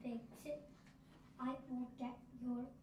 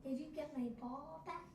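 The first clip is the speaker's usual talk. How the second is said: hopeful voice; 3 semitones higher than usual. Acted. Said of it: "read it in a hopeful voice".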